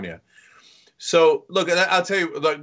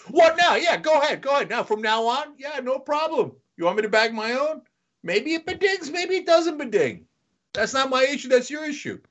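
sarcastic grumbling; 8 semitones higher than usual. Retold or imitated. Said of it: "I was like".

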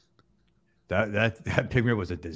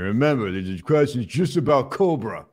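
loud announcing; 3 semitones higher, 7 dB louder than usual. Real, not acted. Calling out to audience.

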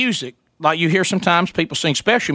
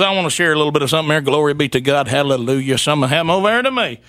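mock preacher; 4 semitones lower, faster than usual. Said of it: "He goes".

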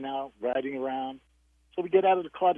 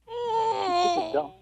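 laughing through words; slower than usual. Real, not acted. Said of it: "host laughs".

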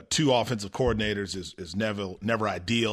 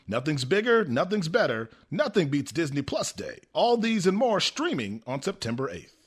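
brisk hyped-up ad announcer; over eager infomercial. Acted. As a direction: pitch it like a movie preview. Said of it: "acting like you're giving movie previews".

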